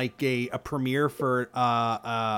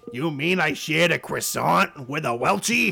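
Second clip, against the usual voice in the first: mock outraged crew; 3 semitones higher, 5 dB louder than usual. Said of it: "And they're just like".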